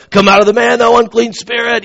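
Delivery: hammed-up order to a demon; playful booming-preacher command; mock exorcism command. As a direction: command with exaggerated solemnity, pitch lifted. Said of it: "He's commanding the demon to come out".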